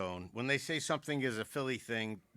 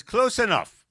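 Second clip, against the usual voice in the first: higher, louder sly reply; high mock woman; 9 semitones higher, 12 dB louder than usual. Lady with bird answering the drunk, high mock voice. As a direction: toss it off as the lady.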